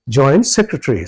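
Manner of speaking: সেক্রেটারি with সেক্ stressed, the rest short and blurred; stress on SEC. Shown as a demonstration. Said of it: "সেক্টে stress দিচ্ছেন". (সেক্ এ জোর দিয়ে সেক্রেটারি)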